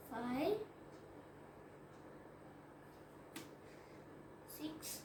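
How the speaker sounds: slow counting. Real, not acted. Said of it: "ఇప్పుడు నేను count చేసి".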